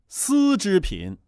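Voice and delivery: 放慢，把"丝"字咬重突出; 慢慢说"丝织品"，重读"丝"; 重音在丝. Shown as a demonstration. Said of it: "突出了一个丝字儿". (重读"丝"字)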